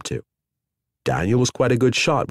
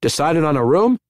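called out, higher and louder; calling out; 7 semitones higher, 4 dB louder than usual. A narrator's reading. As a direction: call across the lobby. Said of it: "The desk clerk called".

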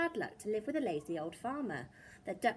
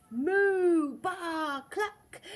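loud, high moo, baa and cluck; animal noises; 7 semitones higher, 9 dB louder, much slower than usual. A narrator's reading. Animals ambushing the farmer, loud high animal cries. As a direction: burst out with farmyard cries.

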